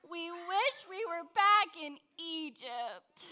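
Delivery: crying, whining complaint; whiny voice. Shown as a demonstration. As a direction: whimper it like a sulking child. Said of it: "let me hear you in your most whiniest voice".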